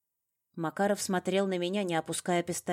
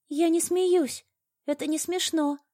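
high, tight, raised protest; choked, frightened denial; strangled voice; 13 semitones higher, 7 dB louder than usual. A narrator's reading. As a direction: squeeze the words out under threat. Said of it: "сдавленно проговорила я".

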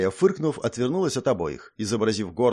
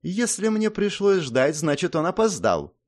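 categorical princess; 7 semitones higher than usual. A narrator's reading. Princess tells the boys he was late, categorical. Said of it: "категорически заявила принцесса".

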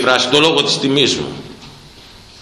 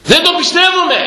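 mock high disbelief. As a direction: play an astonished gossip. Mimics people doubting his age. (ψιλή κοροϊδευτική φωνή)

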